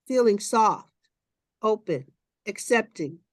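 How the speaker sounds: unhurried contemplative read-aloud; calm reading. Acted. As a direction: read it gently like a meditation text. Reads a meditative text aloud.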